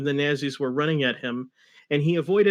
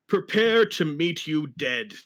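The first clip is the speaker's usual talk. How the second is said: villain threat; slower than usual. Acted.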